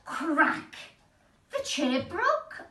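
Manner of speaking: high, slow dramatic build; dramatic crack. A narrator's reading. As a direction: draw out the breaking moment. Dramatic storytelling moment.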